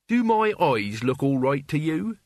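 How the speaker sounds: mildly worried question; anxious. A narrator's reading. Mort asks Albert about his eyes, anxious. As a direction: ask with a touch of anxiety. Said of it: "said Mort anxiously".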